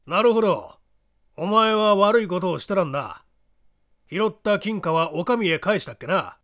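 put-on sly knowing old man; creaky wise old man. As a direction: tease him with sly menace. Small man needles Kinkou.

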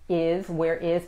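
"where is" as two separate words; separated words. Shown as a demonstration. Teacher showing the formal written form, "where is" said as two words. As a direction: keep "where" and "is" apart, uncontracted. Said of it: "está separado por separado".

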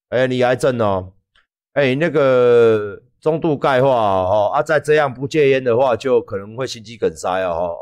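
a hint of a detached doctor reading out test results; calm doctor. Doctor coolly telling a patient his results, lightly voiced and detached. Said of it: "就是很冷静跟你讲啊".

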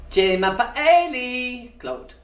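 slow, careful "Je m'appelle Claude"; slow French model. Shown as a demonstration. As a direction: say "Je m'appelle Claude" slowly and clearly. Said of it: "let's try it again".

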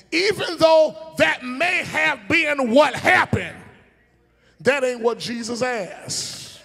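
loud, slow shouted emphasis; preaching shout. Real, not acted. Preacher to congregation, slow loud emphasis. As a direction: drive the point home at full voice.

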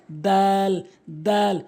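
Arabic দাল, held with a fronted vowel; tongue tip at root of front teeth for দাল; correct দাল. Shown as a demonstration. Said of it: "সঠিক উচ্চারণ হবে".

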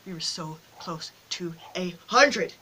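slow, word-by-word disappointment; slow lament. Real, not acted. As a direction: spell out the near miss, dragging every word.

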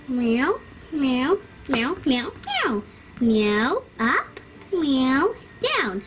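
playful meowing up and down; cat meows. Acted. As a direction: meow like a toy cat. Making the cat meow.

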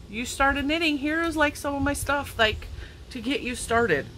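a lightly put-on caring aunt sending yarn; loving relative. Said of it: "would send me, like".

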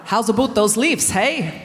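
corrected Canadian accent, lifting on leaves; a cleaner Canadian lilt, leaves rising. Shown as a demonstration. Retrying the Canadian elders' accent to get it right. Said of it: "No, I haven't said that right".

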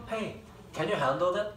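"Hey, can you handle that?" drawn out very slowly and softly, each word slurred together like a native. Shown as a demonstration. Teacher demos a slurred native question to students. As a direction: stretch it slowly so students hear the linked sounds. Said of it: "잘 들어봐".

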